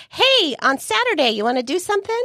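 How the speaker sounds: breezy casual invite. Retold or imitated. Imitating their casual invite.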